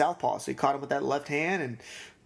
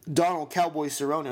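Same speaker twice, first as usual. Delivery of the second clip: name broken by a sudden hiccup; hiccuping mid-name. Real, not acted. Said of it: "I got the hiccups out of nowhere".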